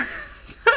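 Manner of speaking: short high-pitched burst of laughter; sudden high giggle. Real, not acted. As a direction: let out a quick squeal of a laugh. High outburst after the hummed noise.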